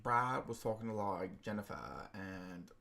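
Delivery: put-on Essex accent, trailing off; light Essex twang, fading away. Shown as a demonstration. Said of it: "I can do the Essex accent".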